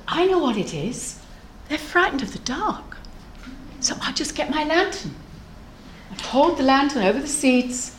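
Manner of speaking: soft, lilting pondering; quiet, confiding storybook thought; hushed thinking aloud. Acted. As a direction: think aloud softly, piecing it together. Monkey quietly works out the seeds' fear.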